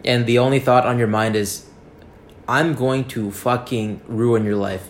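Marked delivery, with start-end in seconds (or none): 2.5-4.8 slow, deliberate mock threat; drawn-out acted menace; slow vow. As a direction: space it out like a sworn revenge. Acted vengeful thought, slowly spaced out.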